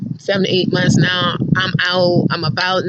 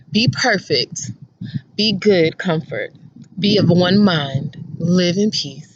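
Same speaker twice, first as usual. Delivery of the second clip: scripture reading; 2 semitones lower than usual. Acted. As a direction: read it like a solemn blessing. Reads scripture aloud to Summer.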